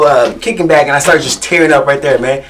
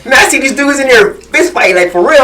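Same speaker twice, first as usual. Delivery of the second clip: laughing quote; 9 semitones higher than usual. Retold or imitated. Quoting a laughing friend.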